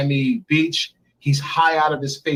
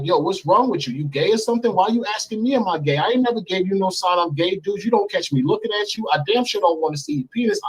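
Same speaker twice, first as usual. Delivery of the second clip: retold rant, pitched up; heated mock tirade, rising higher as it goes; going in on him; 5 semitones higher than usual. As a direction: act out an indignant string of challenges. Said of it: "I'm going in on him".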